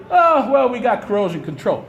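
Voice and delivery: mock their careless shrug; mock nonchalance. Activist mimics officials who turn away from toxic pipes, mock nonchalance. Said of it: "act like nonchalantly".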